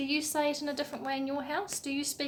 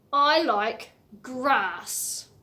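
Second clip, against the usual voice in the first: kangaroo voice; 7 dB louder, much slower than usual. Acted. Voicing Marlow Kangaroo.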